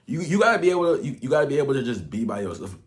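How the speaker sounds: breathless, rushing the words; out of breath. Real, not acted. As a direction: talk while winded. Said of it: "I'm just out of breath".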